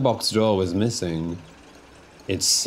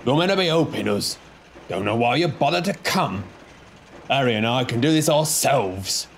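higher, quick irritated telling-off; scolding Bert; 4 semitones higher, faster than usual. Acted. Bert scolding Diesel for making a mess, irritated. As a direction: scold him for being useless.

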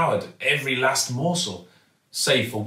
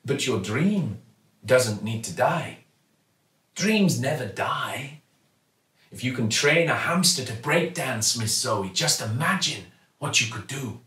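kindly shopkeeper; 2 semitones higher than usual. Acted. Raj encourages Zoe.

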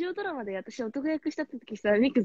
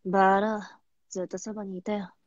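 put-on cool boyish voice; 3 semitones lower than usual. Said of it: "もう一回聞きたい".

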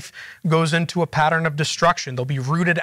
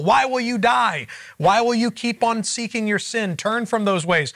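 a mild, higher-pitched imitation of a pleading prophet; 5 semitones higher than usual. Teacher imitating the prophets pleading with Israel, mildly pleading. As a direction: lightly voice a prophet begging Israel to turn back. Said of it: "the prophets pleading with Israel".

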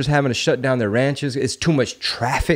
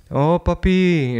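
put-on pleading little kid; 5 semitones higher, much slower than usual. Toddler losing at Connect Four.

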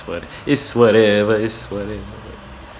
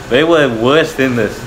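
emphatic exclaim; 4 semitones higher, 6 dB louder than usual. Real, not acted. Gamer exclaiming about overpowered cops.

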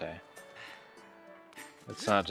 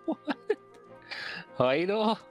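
surprised; 8 semitones higher than usual. Real, not acted. Amused disbelief.

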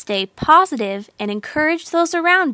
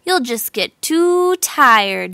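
yelled; 6 semitones higher, 4 dB louder, slower than usual. A narrator's reading. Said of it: "yelled the frogs at the top".

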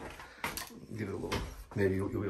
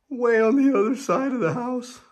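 high, loud exaggeration; excited; 14 semitones higher, 7 dB louder than usual. Real, not acted. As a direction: stretch it out playfully. Playful exaggeration.

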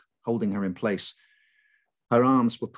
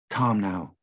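gentle entreaty. Acted. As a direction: coax her gently to be calm. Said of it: "one of them entreated".

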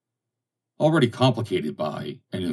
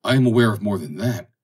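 a louder, excited retort; excitedly; 3 semitones higher, 6 dB louder than usual. Acted. Roland answering the captain's warning, excitedly. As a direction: Roland fires back, stirred up. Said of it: "answered Roland excitedly".

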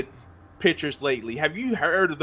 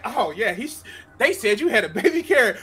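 mock streamer rant; 3 semitones higher, 4 dB louder, faster than usual. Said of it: "It's like".

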